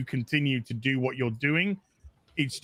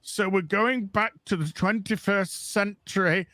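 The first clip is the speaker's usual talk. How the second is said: a hint of a pompous producer; lightly voiced studio spin; half-hearted mock of the trailer makers; mock trailer paraphrase; 2 semitones higher than usual. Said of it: "can I just paraphrase the Picard trailer".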